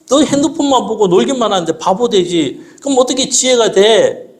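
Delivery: father lightly scolding his daughter; mock scolding father. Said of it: "이렇게 하는 겁니다".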